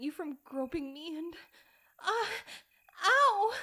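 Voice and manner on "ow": high, loud cry of pain; sharp pained yelp. Acted. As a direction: cry out as if struck.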